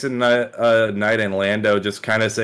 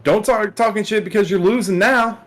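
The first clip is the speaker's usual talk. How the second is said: higher-pitched mock telling-off; imitated yelling; 9 semitones higher than usual. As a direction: retell a fighter's yell without much extra volume. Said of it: "Roosevelt Roberts started yelling at him".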